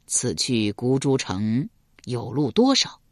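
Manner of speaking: low, slow, courteous request; 缓慢庄重地请教. Acted. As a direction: ask gravely. King asks.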